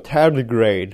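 English word in an American accent; lightly put-on American pronunciation. Shown as a demonstration. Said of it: "Amerikan aksanıyla".

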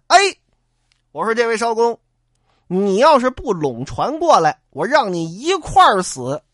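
shouting threat. Acted. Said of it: "跟这儿喊".

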